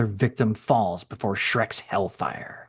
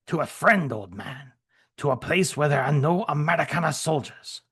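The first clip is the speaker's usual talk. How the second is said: put-on higher German-accented soldier, steadier now; lightly voiced soldier giving his terms; 5 semitones higher than usual. Shrek telling the Frenchman where to send him, lightly accented soldier.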